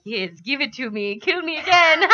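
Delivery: eager imitation of a pain-hungry orc; pain-loving orc. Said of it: "He's just like the pain monger".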